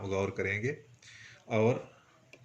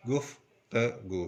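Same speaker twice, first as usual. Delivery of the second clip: slowly, syllable by syllable; much slower than usual. Shown as a demonstration. Teacher breaking गुफ्तगू into its sounds slowly. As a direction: stretch गुफ्तगू out slowly as गुफ त गू. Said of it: "आहिस्ता आहिस्ता पढ़ें".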